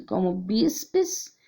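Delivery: ordinary talk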